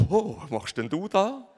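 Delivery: mock surprise through laughter; laughing surprise. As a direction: play it amused and startled. Imagined man finds woman.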